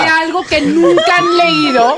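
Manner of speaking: laughing. Real, not acted. Laughing through teasing question.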